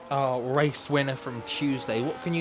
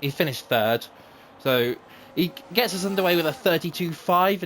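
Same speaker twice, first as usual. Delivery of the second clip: live play-by-play; 3 semitones higher than usual. Acted. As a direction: race commentator calling laps. Live commentary of race laps.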